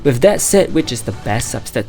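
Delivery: hoarse, sore throat voice; talking through a sore throat. Real, not acted. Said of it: "Sorry if I sound weird because I have a sore throat".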